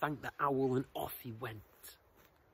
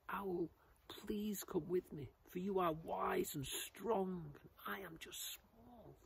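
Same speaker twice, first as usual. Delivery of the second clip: higher, slow, timid pleading; terrified butterfly; 6 semitones higher, slower than usual. Acted. Terrified butterfly begs owl to come along, timid higher plea. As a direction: plead timidly, fading small at the end. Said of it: "The butterfly was terrified".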